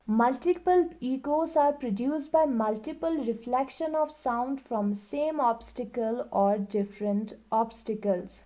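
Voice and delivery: reading the book aloud, very slowly and evenly; slow classroom read-aloud; slow textbook reading. Acted. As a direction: dictate it word by word to the class. Reads textbook line aloud.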